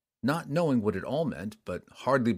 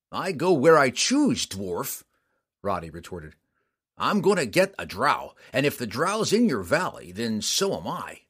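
lightly voiced stubborn hunter, louder at first; defiant mountain man; 4 dB louder than usual. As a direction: refuse to back down. Roddy defies the dwarf.

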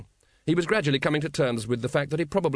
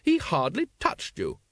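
higher, slow jollying-along; cheerful; 5 semitones higher than usual. A narrator's reading. Lady Ramkin dismissing the sergeant's injury, cheerfully. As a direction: brush off his complaint breezily. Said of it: "said Lady Ramkin cheerfully".

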